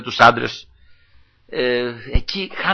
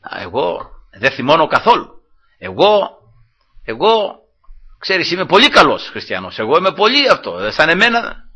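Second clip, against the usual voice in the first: higher-pitched mock self-praise; egotistical boasting; 3 semitones higher than usual. Preacher mimicking a proud Christian praising himself, boastful. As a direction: act out a self-satisfied braggart. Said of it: "από τον εγωισμό".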